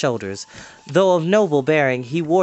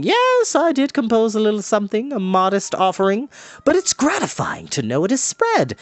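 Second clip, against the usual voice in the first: high, pleased bardic voice; the bard fishing for praise, high and proud; modestly boastful bard; 8 semitones higher than usual. Acted. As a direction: preen while pretending modesty. Fluter proud of his song.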